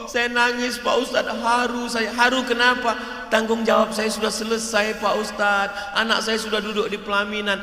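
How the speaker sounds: high, loud imitation of a tearful mother. Bride's mother telling the cleric why she cries, high and loud. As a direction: play the mother proud and moved.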